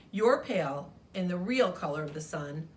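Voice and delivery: a touch of a smug rival mocking the other crayon; lightly voiced huffy crayon; Orange Crayon.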